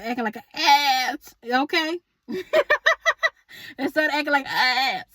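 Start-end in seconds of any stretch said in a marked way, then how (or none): 2.3-3.3 squealing laugh, pitched way up; high burst of laughter. Real, not acted. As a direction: let a high giggle burst out. Laughs at her own joke.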